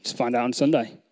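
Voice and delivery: God's quiet, playful answer; voice of the Lord. Retold or imitated. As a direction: give the Lord's reply, low and hushed. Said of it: "I felt the Lord actually say".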